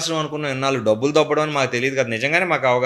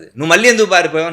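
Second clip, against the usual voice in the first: louder, quicker demanding question; scheming fox demands an answer loudly; firm demand; 4 semitones higher, 6 dB louder, faster than usual. Acted. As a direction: press the donkey hard, a bit louder. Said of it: "అని అడుగుతుంది గట్టిగా".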